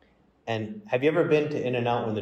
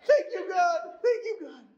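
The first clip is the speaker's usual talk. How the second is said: high, gleeful cheering with laughter; a little girl celebrating a miracle; excited child. Retold or imitated. Daughter in the back seat cheering at the miracle, high and laughing. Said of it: "my daughter in the back is like".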